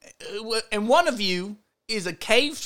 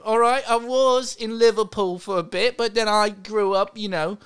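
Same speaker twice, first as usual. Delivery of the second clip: put-on British accent. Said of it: "Is that why you've been changing your accent?".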